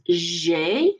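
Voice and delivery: French G as "zhay"; French letter G. Shown as a demonstration. Teacher explaining French G to class, said "zhay". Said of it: "sounds kind of like our J".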